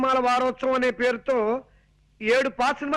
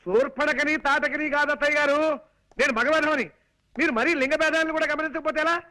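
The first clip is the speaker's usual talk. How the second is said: raised voice for a hard-of-hearing listener; shouting to be heard; 2 semitones higher than usual. Acted. Son-in-law correcting his half-deaf aunt, raised voice. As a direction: speak up insistently to correct her. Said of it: "అంత గట్టిగా అరవకు నాయనా".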